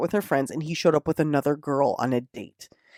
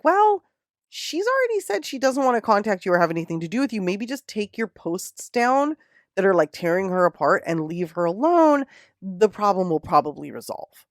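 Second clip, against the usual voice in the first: mock placating cop; 4 semitones higher than usual. Cops telling Josh to leave her alone, mock placating. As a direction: soothe him like a weary officer.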